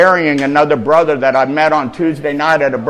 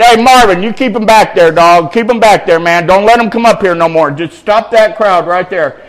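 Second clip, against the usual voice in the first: raised, urgent street-style command; calling out orders; 4 semitones higher, 6 dB louder than usual. Acted. Jesus telling Marvin to stop crowd, calling out. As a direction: order someone to hold back the crowd.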